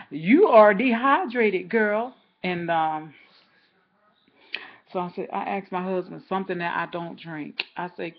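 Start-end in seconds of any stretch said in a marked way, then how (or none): 0.1-2.2 slow, loud inner voice; slow emphatic. Retold or imitated. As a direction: tell yourself the obvious, drawn out. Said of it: "I just heard".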